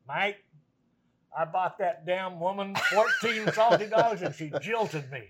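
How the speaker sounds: quoting the jilted friend while cracking up; laughing quote. Retold or imitated. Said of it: "and he goes".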